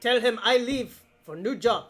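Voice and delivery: lightly voiced character in broken English; measured, simple foreigner's phrasing; overheard character's talk. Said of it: "They go".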